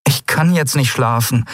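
high, insistent refusal; protesting woman. A narrator's reading. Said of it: "protestierte sie".

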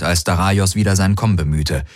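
ordinary delivery, nothing marked

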